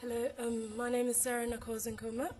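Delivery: hoarse voice from a flu; rough, sick voice with a cold. Real, not acted. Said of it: "Excuse my voice, I have a flu".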